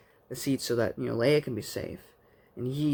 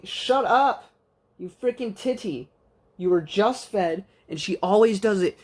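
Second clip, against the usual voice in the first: much higher, louder exasperated scold; scolding the pet; 7 semitones higher, 4 dB louder than usual. Real, not acted. Vlogger scolding her meowing pet, high and exasperated. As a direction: tell off a pestering pet.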